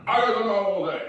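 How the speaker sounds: lightly voiced drunken interruption; drunk interrupter. Drunk man butting in again, mildly slurred. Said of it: "That's what he sounds like".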